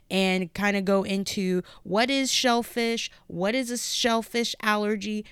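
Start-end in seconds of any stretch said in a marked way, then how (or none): 1.8-5.2 speaking with a noticeable lisp; lisping on the s sounds. Real, not acted. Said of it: "my lisp is, like, really hardcore coming through".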